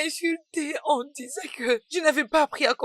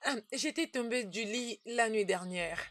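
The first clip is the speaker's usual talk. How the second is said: crying on the phone; 3 semitones lower than usual. Acted. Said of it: "Tu pleures".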